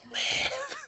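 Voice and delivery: a tiny high-pitched plea; squeaky. Pretend.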